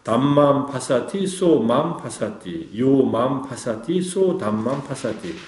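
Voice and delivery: 빠알리 경문을 아주 천천히 낭송하듯; slow Pali recitation. Shown as a demonstration. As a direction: intone the Pali verse very slowly, word by word. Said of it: "상유타니카야 이십이의 팔십칠 경에".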